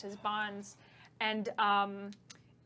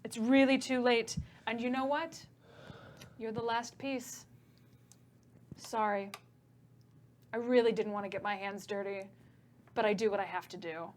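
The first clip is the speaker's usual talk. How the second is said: understated British villain, calm and regretful; British accent. Acted. The Ifriti telling Chet he's the last piece, lightly British and calm. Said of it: "Oh, he's British still".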